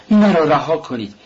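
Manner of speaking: angry cry to be left alone. A narrator's reading. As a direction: drive them out, voice rising. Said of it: "راسکولنیکوف با عصبانیت گفت".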